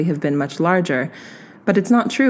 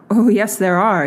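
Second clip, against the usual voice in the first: firm, a little louder insistence; insisting; 3 semitones higher, 4 dB louder than usual. Acted. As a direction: press the point, slightly louder. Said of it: "he insisted".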